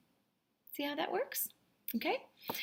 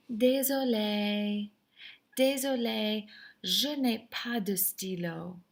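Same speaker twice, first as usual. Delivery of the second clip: polite apology; 3 dB louder, slower than usual. Shown as a demonstration. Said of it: "You have to be super polite".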